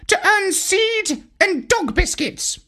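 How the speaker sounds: high, slow bird squawk; squawking parrot. A narrator's reading. Parrot answering the dog, slow squawk. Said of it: "he squawked".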